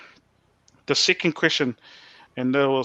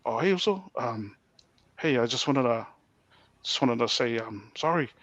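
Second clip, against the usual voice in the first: low, soft, halting phone apology; hesitant apology; 5 semitones lower, 6 dB quieter than usual. Retold or imitated. Co-worker on the phone apologising to the man he wronged, hesitant. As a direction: trail through pauses toward a sheepish sorry.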